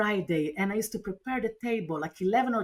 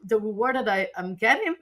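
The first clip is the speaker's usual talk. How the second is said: higher, half-reenacted desperate pleading; mild echo of a tearful outburst; retold hysterical plea; 3 semitones higher than usual. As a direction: replay the breakdown on the phone, voice rising. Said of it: "And I was hysterical. I was crying".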